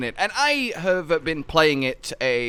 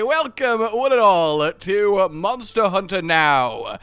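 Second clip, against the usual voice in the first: announcer voice; 4 dB louder, slower than usual. Acted. S0 announces the show.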